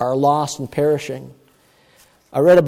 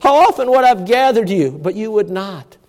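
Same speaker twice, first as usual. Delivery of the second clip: higher-pitched, mildly plaintive cry; retold tearful plea, pitched up; retold weeping lament; 5 semitones higher than usual. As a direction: lament over the city without real sobbing. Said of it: "he wept to tears".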